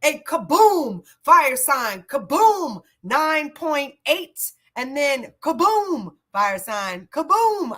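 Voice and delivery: slow, punchy kaboom calls; playful kaboom. Real, not acted. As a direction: bang out each kaboom for fun. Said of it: "I like saying kaboom".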